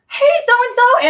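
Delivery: high drawn-out call to a friend; stretched high shout of a name. Retold or imitated. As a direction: call across the cellblock. Calling out to a friend in jail.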